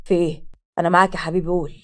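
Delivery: lightly eager, low-pitched interest; concerned, eager. A narrator's reading. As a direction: offer a brother full attention. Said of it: "وقال باهتمام ولهفة".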